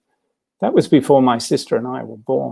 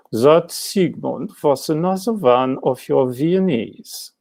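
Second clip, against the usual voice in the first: slow, lightly voiced posh Viennese lady; a hint of an even posher accent, drawn out slowly; posher Viennese wife; slower than usual. Wife answering her husband about Freud, slow and lightly posh. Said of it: "his wife sounded even posher".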